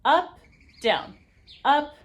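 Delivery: counting the accents out; a coach calling the moves; loud calls of up and down. Shown as a demonstration. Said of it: "coming from the diaphragm".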